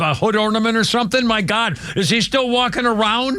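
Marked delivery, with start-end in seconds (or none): 1.3-3.4 chuckling through the words; half laughing, slowed down. Real, not acted. Laughing about the dancing robot.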